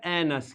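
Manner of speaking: "एनस" with a schwa in the second syllable; pronunciation demo. Shown as a demonstration. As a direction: model "एनस" as two joined syllables, AN-us. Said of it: "क्या हो जाएगा?".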